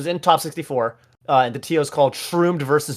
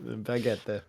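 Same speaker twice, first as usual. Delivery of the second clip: French chef; 5 semitones lower, 14 dB quieter than usual. Pretend. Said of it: "He's, like, French".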